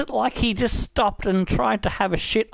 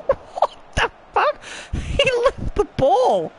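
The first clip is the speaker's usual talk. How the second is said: laughing disbelief. Real, not acted. Streamer howling at his player leaving the ball behind. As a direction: wail it out through helpless laughter.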